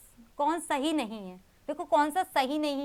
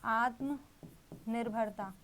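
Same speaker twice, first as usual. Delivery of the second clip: आत्मनिर्भरता drawn out very slowly and softly, syllable by syllable; slow syllable split; 2 semitones lower, 6 dB quieter, much slower than usual. Shown as a demonstration. Teacher breaking the word into parts for students, slow and soft. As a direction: stretch आत्मनिर्भरता out slowly so each part of the compound is heard. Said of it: "इसका कर लेते हैं संधि विच्छेद".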